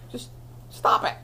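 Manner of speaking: whispered, soft command; gentle whisper. Acted. Jesus quietly telling the forgiven woman to stop, whispered. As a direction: hush it like a kind rebuke.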